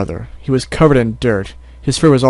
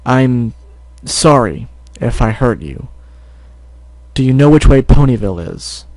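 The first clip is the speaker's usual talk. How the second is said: forced calm. Acted. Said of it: "as calmly as he could".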